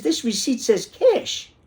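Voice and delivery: slow, high-pitched outrage; retold customer tirade; indignant protest. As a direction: spell it out, exasperated and high. Acted argument with store clerk.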